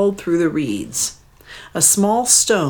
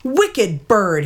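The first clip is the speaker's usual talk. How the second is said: mild shout; 5 semitones higher than usual. Acted. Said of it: "he shouted".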